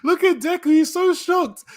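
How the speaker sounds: high-pitched, laughing squeal of disbelief; cracking up. Real, not acted. Reader reacting to Deku's shock, cracking up. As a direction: squeal it through helpless laughter.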